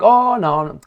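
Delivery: high, loud mocking oh no no; squealed mock protest; mock denial. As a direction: ham up the fake innocence. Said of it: "They're like".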